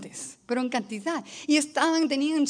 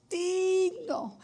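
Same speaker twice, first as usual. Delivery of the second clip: higher, much louder, slow crying out; crying out worship; 7 semitones higher, 9 dB louder, much slower than usual. Retold or imitated. Preacher voicing the elders before the throne, slow loud cry. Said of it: "se caían en sus rostros y gritaban".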